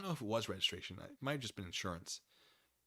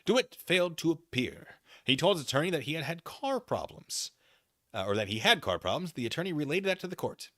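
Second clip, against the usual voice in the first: brisk, louder reading-out voice for the court filing; reading a document aloud; 7 semitones higher, 8 dB louder than usual. Acted. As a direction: read the filing out to the viewers.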